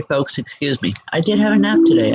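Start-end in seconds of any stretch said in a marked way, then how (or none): 1.1-2.1 talking through a yawn. Real, not acted. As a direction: yawn mid-sentence, words stretched. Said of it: "I don't know why I'm yawning".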